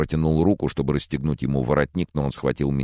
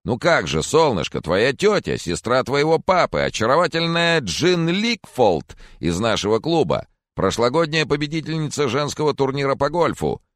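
put-on higher, louder chatty old gentleman; fussy old Mr. Corcoran, higher and louder; jolly old man; 11 semitones higher, 4 dB louder than usual. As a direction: play the doting old neighbour, up high. Old Corcoran voiced high.

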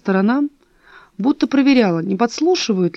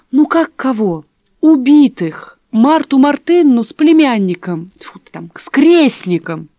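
louder, exasperated explanation; 4 semitones higher, 6 dB louder, slower than usual. A narrator's reading. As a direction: spell it out, losing patience. Dasha exasperated again.

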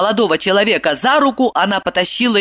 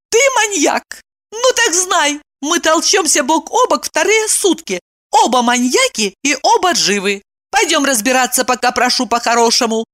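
1 amused; 10 semitones higher than usual. A narrator's reading. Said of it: "Евдокии стало смешно".

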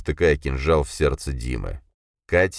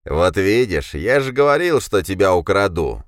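gleeful madness; 4 semitones higher, 5 dB louder than usual. A narrator's reading. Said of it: "с заметной безуминкой".

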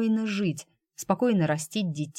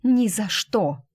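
defiant refusal; 4 semitones higher, 4 dB louder, slower than usual. Acted. She refuses to leave.

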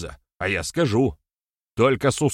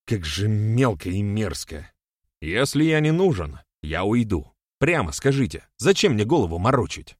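raised-voice indignant tirade; getting worked up; 4 semitones higher, 4 dB louder than usual. A narrator's reading. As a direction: pour out the grievance, pitch pushed up. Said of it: "начал он заводиться". (возмущённо, на повышенных тонах)

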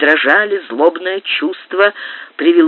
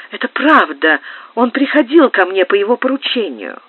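higher woman's voice, admitting; lightly voiced countess; 7 semitones higher than usual. A narrator's reading. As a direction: own it plainly. Графиня признаётся. (графиня признаётся, чуть выше)

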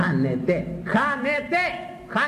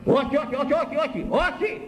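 high, hurried string of όχι; mock frantic refusal; 9 semitones higher than usual. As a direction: squeal όχι over and over like a panicked demon. Voicing the demon fleeing confession. (ψηλά, βιαστικά όχι σαν τρομαγμένο δαιμόνιο)

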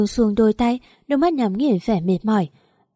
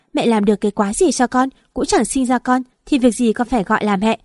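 louder, heated retort; angry quarrel; 2 semitones higher, 4 dB louder than usual. Acted. Daughter-in-law fighting with her mother-in-law, angry and louder. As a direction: throw it back at her.

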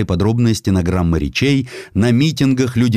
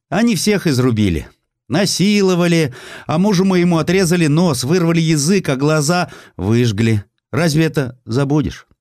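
anguished village witness; 8 semitones higher than usual. Acted. Village woman witness testifying in court.

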